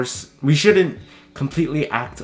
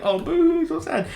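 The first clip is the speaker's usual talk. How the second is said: very high, whiny mock sympathy; mock boo-hoo; mocking whine. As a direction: sneer at attention seekers in a sing-song. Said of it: "people look at me and be like".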